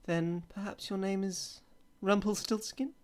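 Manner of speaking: the Queen springs the true name, high and knowing; queen's triumphant guess. A narrator's reading. Queen sly and triumphant, naming Rumpelstiltskin at last. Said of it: "And then she said".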